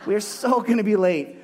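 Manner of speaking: laughing, fed-up parent, rising at the end; a half-laughing plea from a late parent; exasperated parent. Retold or imitated. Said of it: "You're just like".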